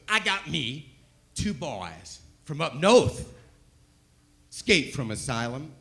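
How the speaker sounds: put-on Southern cop on the radio, in a hillbilly accent. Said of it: "biggest hillbilly accent I'd ever heard".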